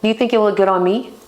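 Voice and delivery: fast, coy question; coy flirting. Shown as a demonstration. Asking a man if the shirt suits her, coyly. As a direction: fish for a compliment playfully. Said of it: "You'd be like".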